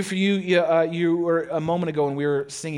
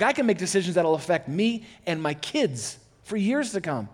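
ordinary talk, nothing marked

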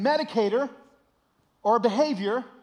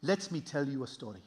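put-on lower, softer accented father; storytelling dad; 8 semitones lower, 6 dB quieter than usual. Dad about to tell his son a story, unhurried. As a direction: settle in as a dad with a tale. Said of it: "He said".

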